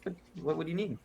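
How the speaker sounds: high cheerful halfling voice; chirpy little shopkeeper greeting; happy shopkeeper. Acted. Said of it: "he's all happy".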